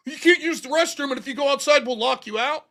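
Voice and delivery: mock quoting the roommates' rule; mocking roommates. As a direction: parrot their rule back in scorn.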